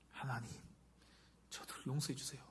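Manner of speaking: soft, hushed plea to God; gentle prayer. Acted. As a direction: pray quietly for their forgiveness, with pauses. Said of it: "어떻게 기도하나요".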